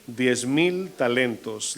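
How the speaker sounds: slow, weighty stress on "mil"; slow stress on "mil" to show the size of the debt; slow emphasis. Shown as a demonstration. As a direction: lean on "mil" in "Diez mil talentos" and let it sink. Preacher stresses the huge debt.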